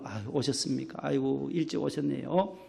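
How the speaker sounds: soft, beaming welcome at the door; hushed, cheerful usher's welcome; bright greeting. Shown as a demonstration. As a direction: greet them gently and gladly. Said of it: "밝고 기쁜 얼굴로".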